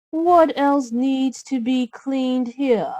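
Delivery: sly cartoon stepmother plotting chores; a hint of a sneering stepmother. Stepmother voiced.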